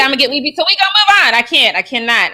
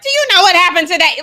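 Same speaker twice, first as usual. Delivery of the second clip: venting; 10 semitones higher, 4 dB louder than usual. Retold or imitated. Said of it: "vent to Devin and be like".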